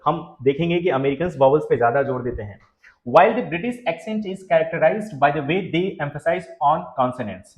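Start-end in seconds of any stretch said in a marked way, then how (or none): 3.1-7.5 slow, careful read of the English line; slow reading aloud. Shown as a demonstration. Teacher reading the slide to students, slow and careful. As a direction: read it out slowly for the class. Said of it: "जी, और ये जो ज्यादातर".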